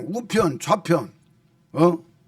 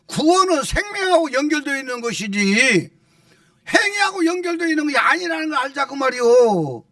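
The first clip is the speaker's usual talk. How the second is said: impassioned preaching; 6 semitones higher than usual. Real, not acted. Pastor warning churches against relying on works, impassioned preaching. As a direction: build to forceful, repeated exclamations.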